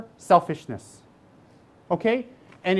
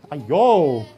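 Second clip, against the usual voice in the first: exasperated groan; 4 semitones lower, 5 dB louder than usual. Real, not acted. Exasperated exclamation.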